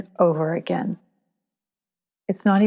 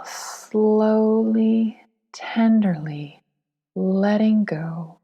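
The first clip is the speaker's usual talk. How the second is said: soothing, unhurried guidance in short, spaced phrases; guided meditation. Acted. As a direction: ease the listener into letting go, lingering on each phrase.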